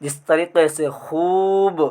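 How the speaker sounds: खूब with the long ū stretched slowly; drawn-out vowel. Shown as a demonstration. Teacher to students, slowly stretching the vowel. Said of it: "इस तरीके से अगर हम खींच करके पढ़ेंगे".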